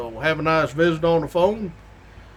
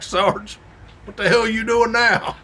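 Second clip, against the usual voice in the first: imitating a laughing dispatcher's outburst; amused disbelief; 6 semitones higher than usual. Dispatcher catching the sergeant's prank again, amused higher outburst. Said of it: "dispatcher starts laughing a little bit".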